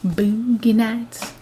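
BOOGIE with a long drawn-out "oo", very slow; imitated non-American boogie. Echoing co-host's way of saying it, imitated slow long-vowel Boogie. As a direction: stretch out "Boogie" as "boo-gee", imitating a foreign pronunciation. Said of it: "I like the way you say boogie".

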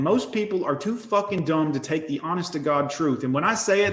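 ordinary talk

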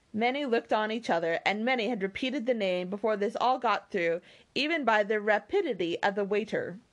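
measured, expressive storybook reading; story narration. A narrator's reading. Reader telling listeners of the party at Lyme, story narration. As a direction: read the novel out with lilting phrases. Reads a novel aloud.

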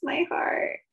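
high, aching sigh over the couple, fading to a whisper; swooning heartbreak. Retold or imitated. A fan sighing over the ending, heartbroken and tender. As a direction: gush like your heart is breaking for them. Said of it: "I'm always like".

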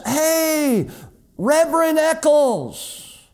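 put-on high, slow, bright call of a young man; young student greeting his pastor, voice pitched high; friendly greeting. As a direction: hail him from across the line.

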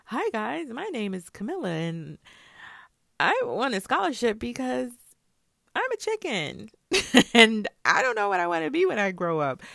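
loud, high, hammed-up intro as a kid; mock intro video. Mocking her own imagined scholarship video, hammed-up and loud. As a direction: pretend to introduce yourself in a silly winner video. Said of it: "by saying".

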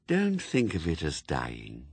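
hollow, dropping voice of Death, low at the end; Death, calm and cold. Acted. Death speaks.

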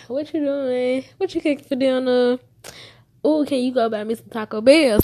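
put-on high, loud, fast eager kid voice; a daughter phoning her mom at work; child calling mom. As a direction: pester mom like a needy teenager.

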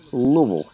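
"Louisville" mumbled as one blurred syllable, Luh-vul; local Louisville pronunciation. Shown as a demonstration. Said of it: "it just has to mumble out of your mouth, like, one syllable".

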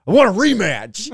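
high, insistent demand, imitated; mock kid yell. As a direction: imitate a worked-up kid demanding his turn. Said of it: "yelling it".

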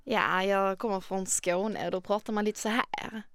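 Skåne dialect with rolled R's; southern Swedish accent. Shown as a demonstration. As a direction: speak like someone from Skåne. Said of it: "Speak an accent in a Swedish accent for me, like someone who lives in the South".

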